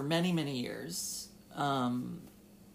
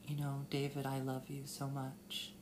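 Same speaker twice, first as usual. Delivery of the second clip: softer, tender mother's goodbye; tender farewell; 6 dB quieter than usual. Retold or imitated. Mother telling her son she loves him, softly tender. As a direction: let it fall to a loving hush. Mom's loving farewell retold.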